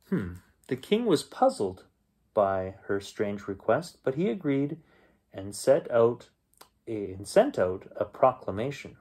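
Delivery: put-on gentle storyteller reading to children; bedtime story reading. A narrator's reading. Uncle reading a folk tale to young listeners, storyteller voice. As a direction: read it like a bedtime tale for kids.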